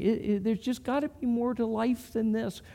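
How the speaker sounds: lightly acted plaintive wondering; wondering aloud. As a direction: voice someone's private, unhappy questioning. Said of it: "when you're wondering".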